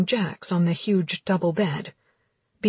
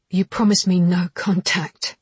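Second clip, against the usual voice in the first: hissed; 5 dB louder than usual. Acted. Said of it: "she hissed".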